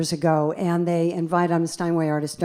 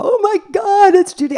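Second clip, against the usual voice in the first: much higher, thrilled group squeal; starstruck squeal; 8 dB louder than usual. Retold or imitated. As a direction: squeal like a roomful of excited fans. Room of fans recognizing her.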